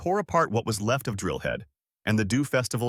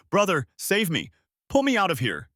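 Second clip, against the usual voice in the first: high, desperate cry for help; urgent plea; 6 semitones higher, 3 dB louder than usual. A narrator's reading. Kang Dante pleading with his brother, urgent. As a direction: beg to be rescued, voice raised high. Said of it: "cried out an urgent plea".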